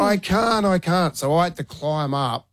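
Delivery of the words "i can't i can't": imitating scared daughter. Dad voicing frozen daughter.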